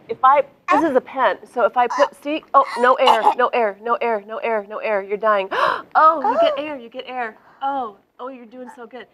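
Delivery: excited, half-laughing play-acting; hammed-up villain, giddy and loud; playful mock murder.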